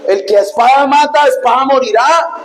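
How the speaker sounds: firm preacher's mock scolding; acted rebuke. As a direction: act out reprimanding a disciple. Acts the Lord rebuking Peter.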